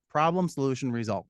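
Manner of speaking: each word spaced out and stressed; Problem, solution, result, falling on result; listing the framework. Shown as a demonstration. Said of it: "the idea is".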